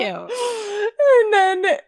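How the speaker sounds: high squeal through laughter; real helpless laughter in the words; cracking up. Real, not acted. Cracking up over the quote.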